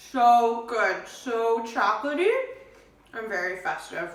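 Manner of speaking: talking with a mouthful; mouth full. Real, not acted. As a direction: speak round a bite of chocolate. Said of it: "I have chocolate in my mouth".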